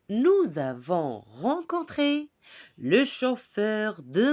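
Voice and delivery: diction lente et articulée, vers par vers; récite lentement, en détachant chaque vers; récitation de poème. Acted. Récite le poème aux élèves. (récitation poétique, lente et posée)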